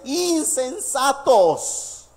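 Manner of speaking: very slow, drawn-out insensatos; stern rebuke. Acted. Preacher as Paul scolding the Galatians, slow and stern. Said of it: "bien agresivo y bien duro".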